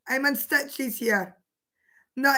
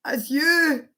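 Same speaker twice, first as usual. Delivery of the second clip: giggling through the words; half laughing it out. Real, not acted. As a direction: caught in a giggle fit. Can't stop laughing.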